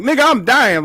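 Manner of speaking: high, loud hammed-up whine of a dying man; mock dying plea. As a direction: play up the dying drama for the friend. Sick, begging friend for sympathy.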